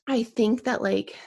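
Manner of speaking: slightly winded, catching breath. Real, not acted. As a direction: talk while out of breath. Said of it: "sorry if I'm out of breath".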